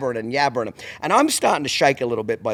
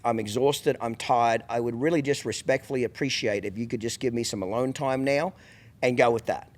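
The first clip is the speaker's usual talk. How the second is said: polite and calm; 4 semitones lower, 4 dB quieter than usual. Retold or imitated. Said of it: "What I should have said to her".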